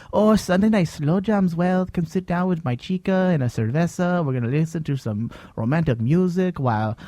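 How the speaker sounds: lightly put-on Mexican accent; a hint of a Mexican accent, dreamy. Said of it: "the worst Mexican accent".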